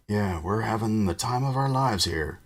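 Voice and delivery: muffled, squashed against a wall; muffled voice, face pressed to the wall. Acted. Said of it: "whose voice sounded muffled".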